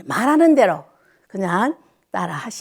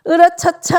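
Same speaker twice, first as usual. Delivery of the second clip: a lifted, louder heave-ho; hearty stretch cheer; 5 semitones higher, 4 dB louder than usual. Real, not acted. 어르신들 기지개 켜며 힘차게 외치는 기합.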